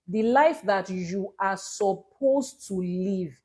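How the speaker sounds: slow, weighty emphasis on "supposed to"; stress on supposed to. Shown as a demonstration. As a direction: draw out the line, leaning deliberately on "supposed to". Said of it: "emphasis on the word supposed to".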